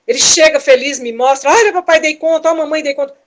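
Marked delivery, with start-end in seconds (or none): 1.5-3.2 put-on proud child. Child showing parents his work.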